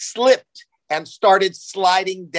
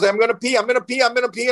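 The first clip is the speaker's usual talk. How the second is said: put-on higher, urgent little girl voice; whiny toddler; 7 semitones higher, faster than usual. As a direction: repeat it like a desperate toddler. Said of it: "baby crying and she goes".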